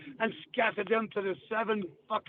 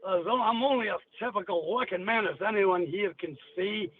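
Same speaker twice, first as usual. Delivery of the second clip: Glasgow accent. Shown as a demonstration. Demonstrating Scottish for radio hosts, Glasgow accent. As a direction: recite the old song in broad Glaswegian. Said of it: "But here's Glasgow".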